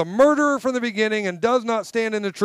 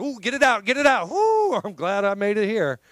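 mock scramble from the fire.

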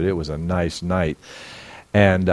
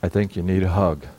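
gentle. Retold or imitated. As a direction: say it like a calm father. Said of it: "Jesus said to her".

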